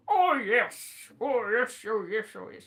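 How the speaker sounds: mum imitation. Trying out how mum answered, lightly imitated assent. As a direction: try mum's yes over and over, easing down. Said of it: "She didn't say it like that".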